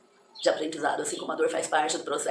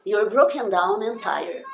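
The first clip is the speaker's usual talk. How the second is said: You're broken down and tired, slow and loud; teacher reading lyric to learners; slow lyric demo; 3 semitones higher, 5 dB louder, slower than usual. Shown as a demonstration. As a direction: read the line slowly and clearly. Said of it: "tá bom?".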